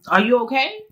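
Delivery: lightly sarcastic check-in; mock concern. Shown as a demonstration. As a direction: ask as a teasing challenge. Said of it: "like, to be funny".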